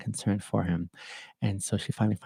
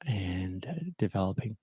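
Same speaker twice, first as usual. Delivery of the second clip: hushed; 8 dB quieter than usual. Real, not acted. Quiet moment before sad news.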